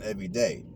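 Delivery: "everyday" firmly underlined as the key word; stress on everyday. Real, not acted. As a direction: land deliberately on "everyday" to close the phrase. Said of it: "Emphasis on everyday".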